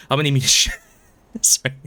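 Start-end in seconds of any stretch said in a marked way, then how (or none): 1.4-1.9 fast, laughing through the apology; apologizing after tripping over words, half laughing; flustered giggly apology. Real, not acted. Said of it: "slight case of brain damage".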